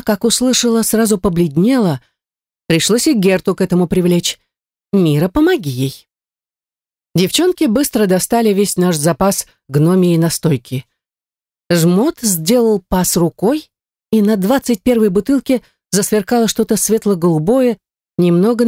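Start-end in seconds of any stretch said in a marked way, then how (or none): none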